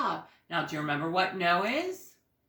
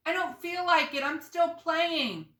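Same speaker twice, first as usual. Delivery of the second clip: imitating a child; 11 semitones higher, 5 dB louder than usual. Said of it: "and you say".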